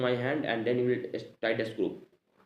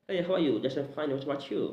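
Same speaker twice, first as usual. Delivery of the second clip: higher-pitched imitation of a foreigner's English accent; put-on foreign accent; 4 semitones higher than usual. Shown as a demonstration. Teacher showing learners how to change the accent, put-on foreign accent. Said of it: "change the accent like this".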